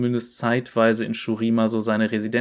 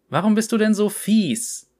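put-on much higher, small innocent kid asking; child's voice; 9 semitones higher, 4 dB louder than usual. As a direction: ask like a puzzled little child. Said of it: "rollte und fragte". (hohe, kindliche Stimme, lauter)

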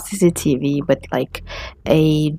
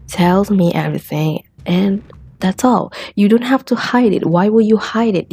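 retold police pressing hard, pitch lifted; insistent interrogator; 3 semitones higher than usual. Police interrogating the husband to get it out, insistent. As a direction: press the suspect to confess, voice raised in pitch.

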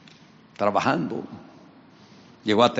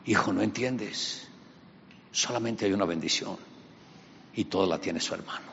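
put-on tired old father; 6 dB quieter than usual. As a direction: let him down gently. Isaac gently refuses.

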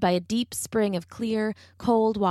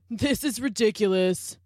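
spat. A narrator's reading. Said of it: "spat a cheetah".

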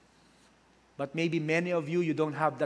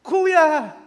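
a sharp, louder, higher call of his name; sharp rebuke; 12 semitones higher, 11 dB louder than usual. Retold or imitated. Disciple rebuking her old mentor, sharp call. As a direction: scold him with one word. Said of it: "Nirebuke siya".

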